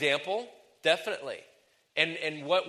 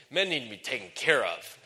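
MEN leaned on, a firm statement; varied inflection. Shown as a demonstration. Preacher demonstrating inflection to ladies, firm emphasis on MEN. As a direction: say it firmly, leading with MEN. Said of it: "use the inflection of your voice".

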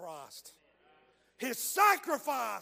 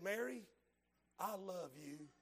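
dying whisper; 4 semitones lower, 9 dB quieter than usual. Retold or imitated. Dying man's last words.

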